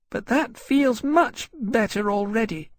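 high, slow small-dragon voice; grateful little dragon. A narrator's reading. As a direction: pipe it up gratefully as a tiny dragon. Little dragon Levitas, grateful after cleaning.

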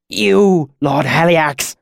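high, loud cry of pain; agonized submission. Acted. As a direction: blurt the answer out in agony. Cinder answers in agony.

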